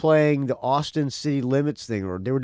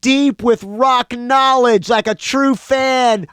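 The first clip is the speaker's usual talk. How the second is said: excited; 9 semitones higher, 7 dB louder, slower than usual. Real, not acted. Cheering the rock-fan move.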